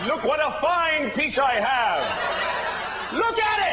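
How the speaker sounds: hammed-up delight to cover embarrassment; desperate fake enthusiasm; mock cheerful showing off. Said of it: "I started going".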